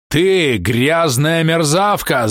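betrayed husband's enraged cry; shouting. A narrator's reading. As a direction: spit each word at her. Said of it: "закричал он".

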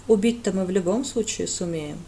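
icy matter-of-fact; chilly aside; cold. Acted. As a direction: state it coldly, no heat. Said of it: "холодно добавил жрец".

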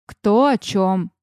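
slow, dismissive snort of a line. A narrator's reading. Sister scoffing at the friends' happy talk, slow dismissive snort. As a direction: scoff at her, dragging it out. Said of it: "фыркнула Рианор".

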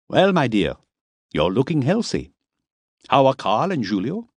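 fatherly Miller. A narrator's reading. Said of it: "looked her over in a fatherly way".

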